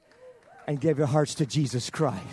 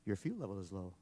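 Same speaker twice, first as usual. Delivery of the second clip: computer voice; 8 semitones lower, 11 dB quieter than usual. Retold or imitated. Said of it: "the voice came on".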